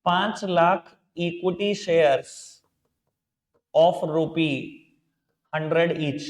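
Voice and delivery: measured dictation with long pauses; spaced out for note-takers; slow dictation. Real, not acted. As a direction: dictate it slowly, phrase by phrase. Teacher dictates an entry to write.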